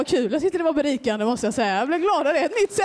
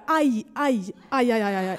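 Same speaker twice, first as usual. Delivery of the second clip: mock aj moans; 6 semitones lower, slower than usual. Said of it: "låter det lite mer så här".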